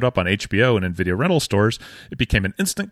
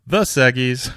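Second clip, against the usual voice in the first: wife's reply; 3 semitones higher, 3 dB louder than usual. Retold or imitated. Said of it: "she knows to humor me by responding".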